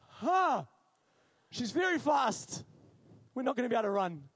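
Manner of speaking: loud, high startled schoolboy panic; hammed-up panic, loud and high; acted alarm. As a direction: cry out as if caught by the teacher. Schoolboy alarmed at approaching teacher.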